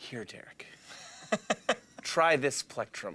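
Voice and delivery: calm, centered, kindly, soft and breathy. Retelling what Bruce always says to Derek: imitating Bruce. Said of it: "And he's always like".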